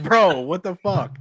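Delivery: laughing disbelief. Real, not acted. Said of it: "laughing disbelief".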